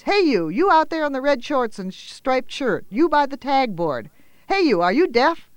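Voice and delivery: put-on angry shout at a distant girl. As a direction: yell to get her attention. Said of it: "shouted a voice".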